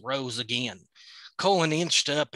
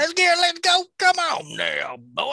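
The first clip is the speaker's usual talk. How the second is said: urgent coaxing; 6 dB louder than usual. Acted. Hunter urging wolf to go.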